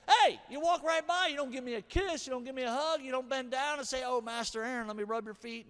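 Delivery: husband airing grievances at wife, mock indignant; indignant complaint.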